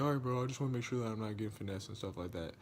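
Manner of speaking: mock hurried reassurance. Buyer backing off, retold.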